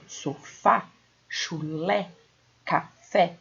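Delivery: "Sofá, chulé, café" with wide-open final vowels; open stressed vowels. Shown as a demonstration. Teacher gives acute-accent examples, open stressed vowels. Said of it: "o som é aberto".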